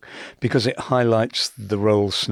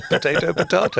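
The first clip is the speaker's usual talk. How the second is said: laughing potayto potahto; 9 semitones higher than usual. Shown as a demonstration. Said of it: "Let's call the whole thing off".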